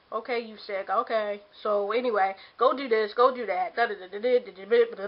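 hammed-up bossiness, brushing her sickness aside; mock bossy orders. Mimicking dismissive demands.

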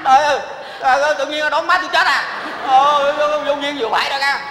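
high, loud indignant complaint; half-laughing outrage at the prank; indignant outburst. Acted. Son scolding uncle for faking the death news, indignant outburst. Son realizes mother isn't dead.

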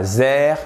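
THERE said wrongly with a Z for TH; th mal prononcé. Shown as a demonstration. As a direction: turn the TH of THERE into Z, as in "zair". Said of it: "c'est pas there". (« there » prononcé « zère », avec un z)

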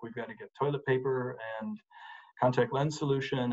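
"toilet paper and" left hanging, then "contact lens solution" left open; running list. Shown as a demonstration. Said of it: "you make a shopping list".

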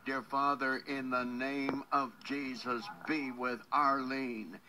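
earnest, measured prayer voice. Acted. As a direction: pray over her with steady fervour. Leads a prayer for caller.

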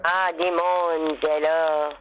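slow, put-on French accent. Partner role-playing French gym lad, French accent. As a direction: greet him in a mock French accent. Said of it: "do you know French accent?".

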